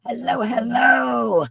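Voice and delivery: slow, high sing-out greeting; calling out. Real, not acted. Host greets her girl on the stream, calling out high and drawn-out. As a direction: stretch each word as a long high call.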